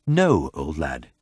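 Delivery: slow, careful, tipsy words; careful drunk articulation. A narrator's reading. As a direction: spell each word out like a careful drunk. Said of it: "he said, articulating carefully".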